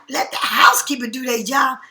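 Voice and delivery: incredulous question, voice rising at job; disbelieving echo. Retold or imitated. She repeats her friend's words back, incredulous. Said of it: "I'm looking at you like".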